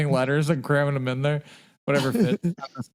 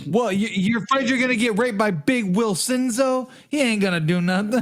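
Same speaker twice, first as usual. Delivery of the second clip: higher-pitched teasing wiseguy act; mock mobster; 5 semitones higher than usual. Mobster mocking a snitch afraid of prison, playfully scornful. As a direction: play a scoffing mob guy.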